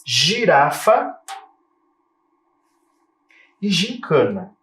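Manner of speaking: "Girafa" very slow, G as J; teacher sounding out "Girafa e gincana"; J sound demo. Shown as a demonstration. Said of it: "Também som de J".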